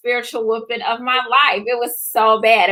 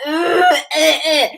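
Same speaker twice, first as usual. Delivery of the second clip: mock sobbing; 5 semitones higher, slower than usual. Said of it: "I'm sobbing".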